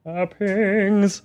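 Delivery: mock British accent. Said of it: "talking like this now".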